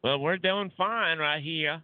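slow Southern drawl; playfully stretched Southern reply; Southern accent. Pretend. Co-host answers the listener's greeting, slow Southern accent.

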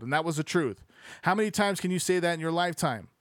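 animated reading aloud; lively sports-book narration. Acted. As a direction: read the book out with lifted energy.

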